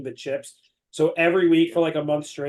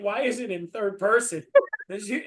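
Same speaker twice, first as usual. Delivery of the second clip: laughing; 4 semitones higher, 4 dB louder than usual. Real, not acted. Laughing at the third-person story.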